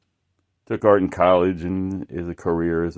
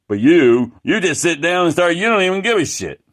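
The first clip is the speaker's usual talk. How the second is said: higher and louder, sped up at the end; imitated scornful rant; 8 semitones higher, 6 dB louder than usual. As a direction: jab at him with rising contempt. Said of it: "He was insulting me".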